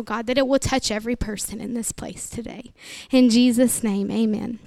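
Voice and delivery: earnest prayer voice, steady and reverent; opening prayer. Acted. Pastor praying over her congregation before the sermon, reverent prayer.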